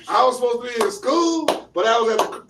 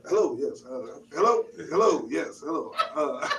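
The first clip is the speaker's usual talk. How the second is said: customer service voice; 3 dB quieter than usual. Shown as a demonstration. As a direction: sound professional on a business call. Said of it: "Only in professional situations".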